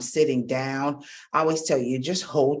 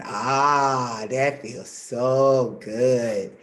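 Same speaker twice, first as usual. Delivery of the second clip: relaxed sigh; 4 semitones lower, much slower than usual. Shown as a demonstration. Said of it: "it's saying".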